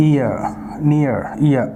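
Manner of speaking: "ఇయర్" said as "ee-ya", no R; silent final R. Shown as a demonstration. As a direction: leave the R unsounded in "నియర్, ఇయర్". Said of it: "ఆర్ sound అనేది మనం పలకూడదు".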